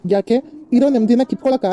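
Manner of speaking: loud, sarcastic outburst; bitter angry retort. Acted. Son to his mother, loud bitter sarcasm. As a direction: fire the question back in anger. Husband angry at wife's arrival.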